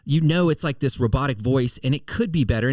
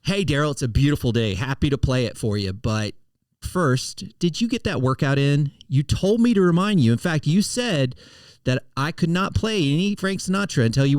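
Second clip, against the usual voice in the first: future AI assistant. Shown as a demonstration. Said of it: "it'll say something like this".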